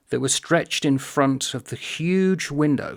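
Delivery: deliberate read-aloud; slow reading. Shown as a demonstration. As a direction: take the phrase slowly, weighing it. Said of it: "but slowly".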